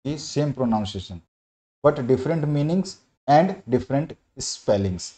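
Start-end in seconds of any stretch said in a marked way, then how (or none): 1.8-5.1 slow, word-by-word question dictation; teacher dictating a question; dictation reading. Acted. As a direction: read the question out slowly so students can write it. Dictates definition slowly.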